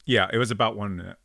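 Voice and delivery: talking with food in mouth; words round a bite of food; mouth full. Real, not acted. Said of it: "something in my mouth".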